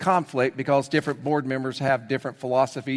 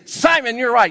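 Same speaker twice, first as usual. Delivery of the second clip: much higher, louder cheer; excited praise; 8 semitones higher, 6 dB louder than usual. Acted. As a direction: cheer him on. Jesus praising Peter.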